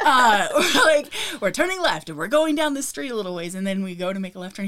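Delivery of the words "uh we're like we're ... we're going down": laughing as she starts the story; cracking up mid-sentence. Real, not acted. Laughing while retelling.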